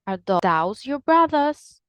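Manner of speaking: those as "thows", Birmingham style; Birmingham accent. Shown as a demonstration. Teacher comparing accents, Birmingham accent. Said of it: "but in Birmingham".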